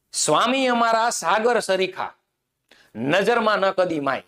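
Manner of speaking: slow, sung-out recital of the verse; poem recitation. Shown as a demonstration. Teacher reciting a poem line to students, slow and measured. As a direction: recite the line slowly, savouring each word. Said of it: "સ્વામી અમારા સાગર જેવા છે".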